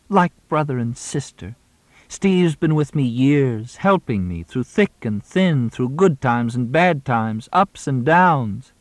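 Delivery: milk the fake grief, dragging each phrase; staged grief. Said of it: "carry off this performance".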